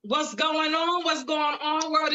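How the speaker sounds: high, bright host shout-out; live show hello; hype greeting. Real, not acted. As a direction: open the show big. Host hypes the live show opener.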